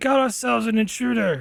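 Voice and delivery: calling out. Voicing a character who announces an intruder: shouting. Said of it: "as he shouts".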